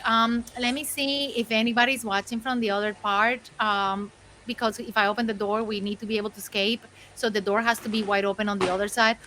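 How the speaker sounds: lightly voiced scheming cat, rapid patter; Brain. Cat plotting the escape to the dog, lightly voiced schemer. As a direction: give a hint of a calculating cat. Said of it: "I was going Pinky and the Brain style".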